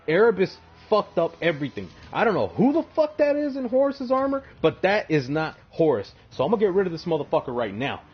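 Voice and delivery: loud, high, fast raging yell; furious shout. Retold or imitated. Torgodon shouting at Erebus, loud, high and fast. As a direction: blow up at the whole lodge.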